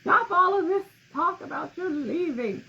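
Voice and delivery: high, loud tearful plea; pleading outburst. Retold or imitated. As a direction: beg her to stay, half-crying. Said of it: "And I'm like".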